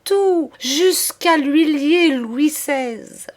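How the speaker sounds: put-on high, slow, childish broken voice; collapsed madame stammering like a child; childlike stammer. A narrator's reading. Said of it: "balbutier d'une voix d'enfant".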